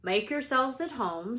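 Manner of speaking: a hint of big Hagrid; Hagrid welcome. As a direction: boom out a friendly welcome. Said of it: "said Hagrid".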